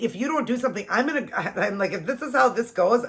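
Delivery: high, heated threat to the police; retold threat. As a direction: warn them, barely holding back. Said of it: "I had to calm down".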